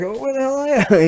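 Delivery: high, loud mock shout down the phone. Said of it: "I call him back".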